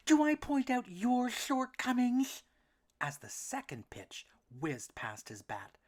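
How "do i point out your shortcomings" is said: high, slow little duckling voice; a small worried duck, pitched up. A narrator's reading. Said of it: "Elmer snapped back".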